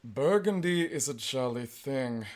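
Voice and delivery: slow, mournful professor; understated melancholy; sad. Acted. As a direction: say it sadly and slowly. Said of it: "said the professor sadly".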